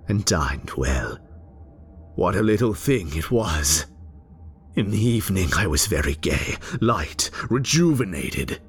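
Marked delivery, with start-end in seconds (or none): 2.2-8.6 giddy elation. Acted. Giddy after killing.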